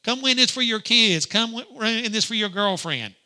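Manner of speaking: mock yell to lure in a passerby; carny yelling. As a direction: call out like a carny hawking a game. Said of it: "they're yelling at you".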